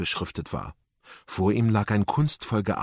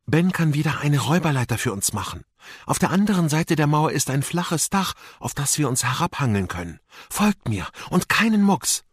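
lightly voiced Amira, higher and urgent; determined young guide; 5 semitones higher than usual. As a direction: lay out the plan to companions. Amira erklärt entschlossen den Plan. (entschlossene, leicht erhöhte Mädchenstimme)

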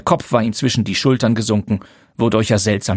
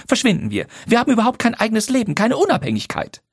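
higher, fast bursts of bitter reproach; wife lashing out at her husband; rising indignant wife; Lydia, accusing; 7 semitones higher than usual. A narrator's reading.

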